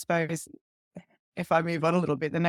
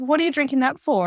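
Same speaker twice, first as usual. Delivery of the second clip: shocked friend; 9 semitones higher, 7 dB louder than usual. Retold or imitated. Friend reacts to pregnancy news.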